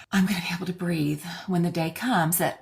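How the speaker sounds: hushed, breathy whisper of a guilty thought; whispered inner voice. Retold or imitated. Daughter whispers her guilty inner thought. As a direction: whisper it like a secret you barely admit. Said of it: "tiny little voice that goes".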